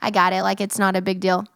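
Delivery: quick, dismissive mock brush-off; fast, casual imitation of playing it off. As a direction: rattle it off like a guy shrugging. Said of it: "push it to the side and be like".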